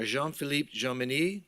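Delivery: lightly French-accented name reading; playful self-styled French pronunciation of Jean-Philippe Jomini. Shown as a demonstration. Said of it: "It's my best French accent".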